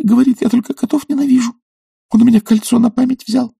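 put-on high, complaining girlish voice; weepy young lady. A narrator's reading. Typist complains tearfully to the professor about her suitor. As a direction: pour out her grievances in a high plaintive voice.

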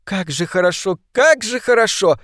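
delighted. A narrator's reading. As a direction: savour the joy. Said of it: "повторяла она". (восторженно)

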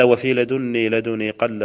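slow, measured verse reading; lightly chanted verse; slow verse recitation. Acted. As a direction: recite the rule slowly.

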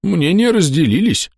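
high, dodging reply; evasive. Acted. Corporal evasively answers the narrator, high and dodging. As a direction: sidestep the question. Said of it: "уклончиво ответил капрал".

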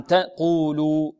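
قولوا with both long u vowels held evenly; natural madd. Shown as a demonstration. Teacher giving an example, natural madd in قولوا. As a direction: stretch the two vowels of قولوا slowly and equally. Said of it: "تنتهي بمد طبيعي".

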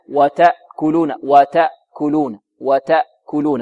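slow وتأكلون with a light, gentle hamza; softened hamza. Shown as a demonstration. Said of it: "هكذا يأتي بها يلطف الهمزة".

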